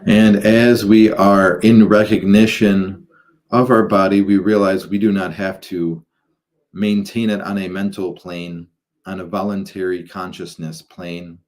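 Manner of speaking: measured, halting guidance into meditation; guided meditation. Acted. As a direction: guide listeners gradually, drawing out phrases and pausing between them.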